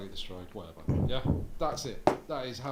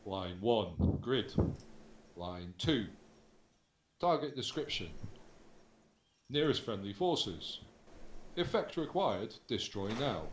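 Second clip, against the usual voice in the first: slow formal call. Shown as a demonstration. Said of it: "you don't need to do the opposite".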